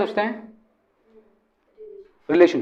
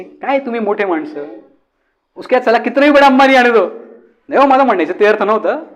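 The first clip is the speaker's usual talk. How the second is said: Puneri taunt; 3 semitones higher than usual. Acted. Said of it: "Puneri टोमणे".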